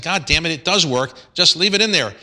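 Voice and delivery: a hint of the irritated author snapping back; mock exasperation. Husband insisting to his wife that the sentence stays, in mild mock exasperation.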